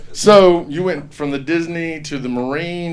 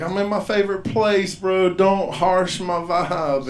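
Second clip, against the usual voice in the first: lightly voiced hippie plea, higher pitch; mellow hippie; 5 semitones higher, slower than usual. Comic answering his mean inner voice, light hippie whine. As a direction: plead laid-back, stretching the last words.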